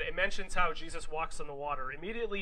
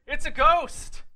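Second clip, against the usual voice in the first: high, loud cry of alarm; frightened shout, pitched way up; terrified yell; 10 semitones higher, 10 dB louder, slower than usual. Acted. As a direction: yell it out in mock terror. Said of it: "they yelled".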